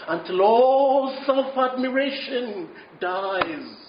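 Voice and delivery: slow, drawn-out sermon delivery; earnest preaching. Real, not acted. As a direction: press the truth on the congregation, slowly. Preaches the lesson of the story.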